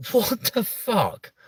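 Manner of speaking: slow, laughing, mock-shocked; laughing disbelief. Real, not acted. Streamer laughing at the chat's age guess, slow and mock-shocked. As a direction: laugh through it, amused and offended.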